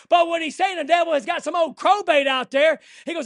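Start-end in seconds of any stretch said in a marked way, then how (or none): none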